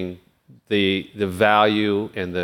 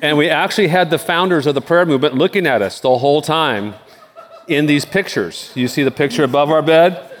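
laughing; 5 semitones higher than usual. Real, not acted. Laughing about bed and pictures.

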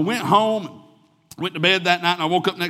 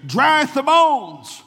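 quoting scripture; 8 semitones higher, 6 dB louder, slower than usual. Acted. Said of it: "And he says, listen".

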